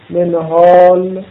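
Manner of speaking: منهال slowly, kasra on the mim, nun without a vowel; correct pronunciation. Shown as a demonstration. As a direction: say منهال as "men-hal" deliberately. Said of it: "منهال رو به کسر میم بخون".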